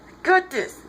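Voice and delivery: high "I got this", insistent; high-pitched insistence. Retold or imitated. Clark insisting to Diana he can fight, high-pitched.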